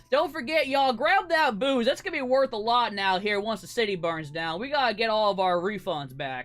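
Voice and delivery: barking orders. Acted. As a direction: bark orders at your henchmen. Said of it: "barking some orders".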